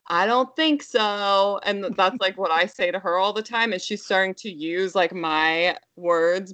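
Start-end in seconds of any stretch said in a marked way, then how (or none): 0.1-1.6 slow, drawn-out mock refusal; sassy toddler refusal. Toddler throws mom's words back at her, drawn-out sass. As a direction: imitate a little one's sassy no. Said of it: "she says".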